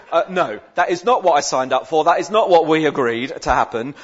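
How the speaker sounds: loud, emphatic protest; mock indignation. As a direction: object firmly, playing up the affront. Retells indignant reaction to email.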